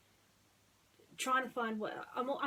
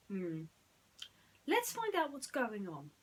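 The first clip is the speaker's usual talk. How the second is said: Aladdin, curious; 3 semitones higher than usual. Acted. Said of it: "Aladdin said".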